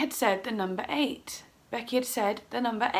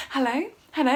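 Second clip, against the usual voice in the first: frantic but polite phone greeting; lightly put-on telephone hello; 3 semitones higher, 4 dB louder, faster than usual. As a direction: answer politely with panic underneath. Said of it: "doing a polite telephone voice".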